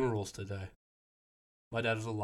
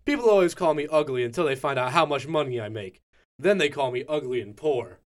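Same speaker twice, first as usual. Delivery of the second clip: stand-up comedian voice; 4 dB louder than usual. Pretend. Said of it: "should I do my full stand-up comedian voice".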